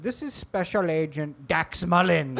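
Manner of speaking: slow, accented fake-agent introduction; scammer's imperfect American accent. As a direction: imitate a call-center accent announcing officially. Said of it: "the accents are all, they can't do".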